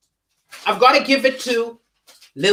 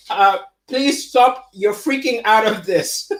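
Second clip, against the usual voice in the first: talking through a laugh, slowly; words melting into laughter. Real, not acted. Laughing at the chat.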